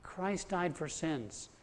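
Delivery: slow, weighty scripture reading; slow solemn quote. Shown as a demonstration. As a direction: lay each word down slowly. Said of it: "telling her First Peter three eighteen".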